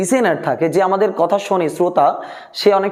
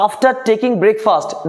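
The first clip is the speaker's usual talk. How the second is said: slow dictation; much slower than usual. Shown as a demonstration. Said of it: "V one লেখা রয়েছে".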